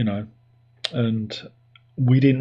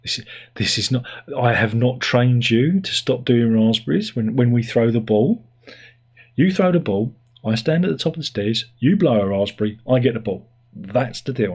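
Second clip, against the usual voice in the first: mildly indignant dog laying down terms; a touch of scolding, with emphatic bursts; mock-angry dog. Dog telling off owner over no more raspberries, mildly indignant. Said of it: "She's very angry".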